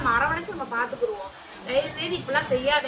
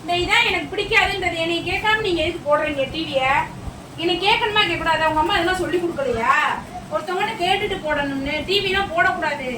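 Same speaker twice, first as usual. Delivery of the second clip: raised, higher-pitched telling-off; strict relative laying down rules; stern scolding; 4 semitones higher, 3 dB louder than usual. Acted. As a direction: scold the children for overstepping. Acted scolding over the TV.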